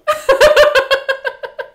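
loud, very high burst of laughter; high, helpless-sounding cackle. Real, not acted. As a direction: crack up at your own mishap. Laughing at own train mishap.

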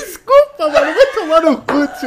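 desculpa no meio da gargalhada; rindo. Real, not acted. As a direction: fala sem conseguir parar de rir. Pede desculpa ainda rindo. (rindo sem parar)

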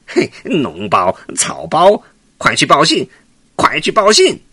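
monkey king crowing over a beaten foe; mocking triumph. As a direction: jeer at the fleeing giant. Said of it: "孙悟空哈哈大笑".

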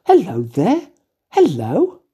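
put-on sing-song, swooping up and down like cooing at a baby; baby talk. Shown as a demonstration. Demonstrating how people greet their dog or baby, in a sing-song coo. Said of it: "talking to their dog or their baby".

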